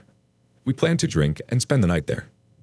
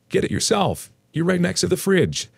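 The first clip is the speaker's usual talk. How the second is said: higher-pitched retort across the room; calling back; 12 semitones higher than usual. Acted. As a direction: toss it back in a high voice, without shouting.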